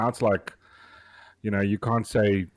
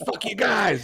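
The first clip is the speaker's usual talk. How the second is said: mock drunk yell; 10 semitones higher, slower than usual. Boxer voiced in retold story.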